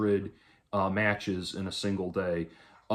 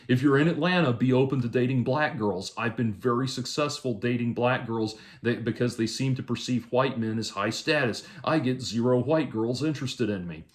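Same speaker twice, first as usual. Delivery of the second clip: raised, emphatic read-out of someone's advice; higher-pitched, insistent quote reading; reading a message aloud; 4 semitones higher than usual. Retold or imitated. Reads out a message.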